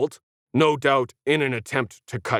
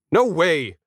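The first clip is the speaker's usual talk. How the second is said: surprised squeak; 3 semitones higher, 3 dB louder than usual. A narrator's reading. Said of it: "he squeaked in surprise".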